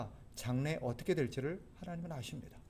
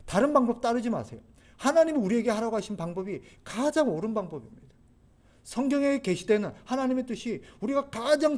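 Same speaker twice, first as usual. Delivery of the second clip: urgent preacher's plea, raised in pitch; high-pitched, insistent exhortation; emphatic pleading; 4 semitones higher, 4 dB louder than usual. Real, not acted. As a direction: drive each point home, pleading with the listeners. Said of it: "또 강조합니다".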